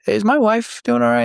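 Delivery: a retold worried husband's plea; anxious question. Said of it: "finally I say".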